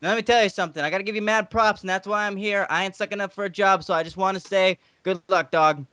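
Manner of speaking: lively, emphatic wrestling-manager impression; lightly voiced hype-man patter; Teddy Long. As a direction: talk him up like an old-school manager. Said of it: "Teddy Long keeping it real".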